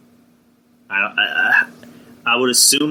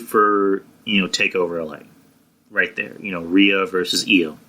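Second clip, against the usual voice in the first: mouth full. Real, not acted. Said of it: "Sorry, I had something in my mouth".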